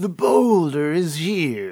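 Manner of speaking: slow, swooping character voice, every word drawn out. Answering whether a character called himself the boulder: The Boulder impression. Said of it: "That was pretty good".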